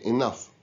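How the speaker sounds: "enough" said as /ɪnʌf/, the gh ending as a clear f; "enough" ending in a crisp f sound. Shown as a demonstration. Teacher models "enough" for students, gh as f. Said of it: "we pronounce the G H as F".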